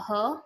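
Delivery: ह as a short breathed "huh"; middle sound. Shown as a demonstration. Teacher giving the middle sound to learners, sound demonstration. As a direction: say ह as h plus a short vowel. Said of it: "middle sound होता है इसका".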